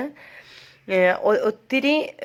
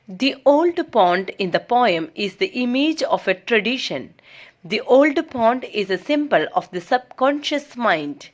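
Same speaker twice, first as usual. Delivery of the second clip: slow, measured read-aloud; textbook reading; much slower than usual. Acted. Teacher reads English study notes to students, measured reading. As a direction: read it out slowly, phrase by phrase.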